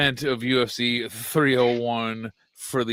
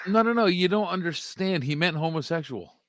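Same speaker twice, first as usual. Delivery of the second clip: higher, pleading excuse; mock defensive excuse; 5 semitones higher, faster than usual. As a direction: protest like a flustered apologist. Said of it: "It's like".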